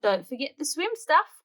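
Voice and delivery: high call after them. Acted. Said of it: "calls Mum".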